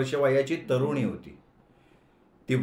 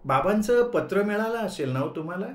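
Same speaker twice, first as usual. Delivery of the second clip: gently sweet, lightly raised question; 5 semitones higher than usual. Acted. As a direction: ask him sweetly, a touch higher. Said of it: "आपल्या मंजूळ आवाजात".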